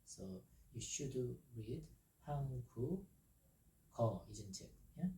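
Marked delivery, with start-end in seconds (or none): 2.3-3.0 한국어 with the final ㄱ linked into 어 as a soft g; linked pronunciation. Shown as a demonstration. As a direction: link 국 to 어 in 한국어, softly voicing the consonant. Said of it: "softer touch now".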